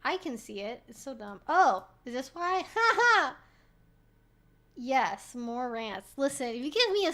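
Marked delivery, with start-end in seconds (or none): 2.7-3.4 a high, loud burst of ha ha; triumphant high laugh. Real, not acted. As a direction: cackle in triumph at finally finding it. Finds the hidden donation.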